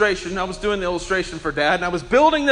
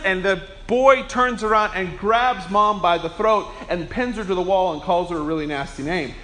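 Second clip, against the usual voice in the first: normal talking voice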